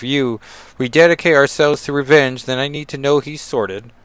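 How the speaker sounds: amateur attempt at a British accent; put-on British accent. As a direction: read the line in a lightly put-on British accent. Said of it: "I need to work on my accents".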